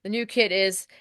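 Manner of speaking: hissing out a long S. Retold or imitated. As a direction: stretch the S into a hiss. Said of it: "I know someone who will be like".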